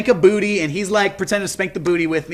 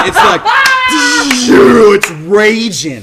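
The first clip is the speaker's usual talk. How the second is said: laughing, high and loud; 4 semitones higher, 7 dB louder, much slower than usual. Real, not acted. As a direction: crack up while saying it. Laughing while telling.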